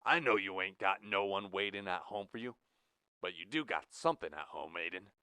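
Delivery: lightly voiced Iowan accent, level and cool; Midwestern drawl. Jack revealing his real Midwestern accent to Blue. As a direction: drop the act into a Midwestern accent. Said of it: "an American-born and American-raised Midwestern drawl".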